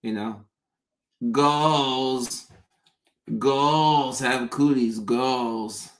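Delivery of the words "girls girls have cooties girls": put-on "goals" for girls, the r turned to a w and rounded; says w for r. Shown as a demonstration. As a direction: say "goals" with a rounded w sound in place of r. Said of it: "I said it as goals".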